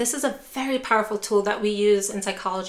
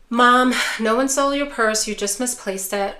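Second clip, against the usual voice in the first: curt, annoyed brush-off, a bit louder on "Mom"; dismissive and exasperated; 4 dB louder than usual. Shown as a demonstration. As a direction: dismiss her like it's a nuisance. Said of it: "if you're stone-faced and you say".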